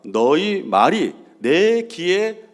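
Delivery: slow, weighty pronouncement; solemn divine voice. Acted. Preacher quoting God's solemn verdict, slowly. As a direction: intone it like God passing judgment.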